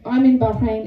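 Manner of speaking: "Bahrain" with a showy rolled R. Retold or imitated. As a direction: roll the R in "Bahrain". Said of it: "when people do the rolling R's".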